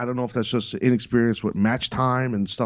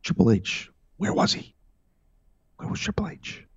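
whispering. Real, not acted. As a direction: whisper the question like a secret. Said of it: "why am I whispering?".

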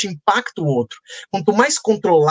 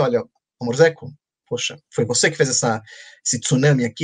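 much lower, gentle mock sweetness; mock delicate; 7 semitones lower than usual. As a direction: play it overly delicate to your wife. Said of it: "Eu fui muito delicado e falei".

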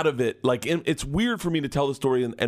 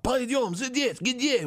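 mock cop bark; 11 semitones higher, much slower than usual. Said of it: "I hear the cop bark out".

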